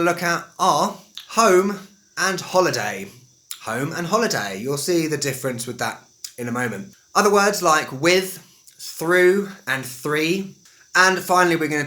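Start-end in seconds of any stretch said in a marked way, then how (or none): 1.3-4.6 "home" and "holiday" in careful RP; carefully enunciated RP example words; received pronunciation. Shown as a demonstration. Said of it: "So that's received pronunciation". 7.9-10.5 "with, through, and three" slowly enunciated; careful RP example words; received pronunciation. Shown as a demonstration. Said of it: "So that's received pronunciation".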